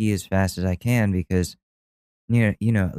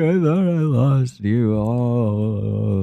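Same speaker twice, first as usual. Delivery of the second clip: put-on relieved kid; 3 semitones higher, much slower than usual. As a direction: cry it out to dad in relief. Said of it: "I'm like".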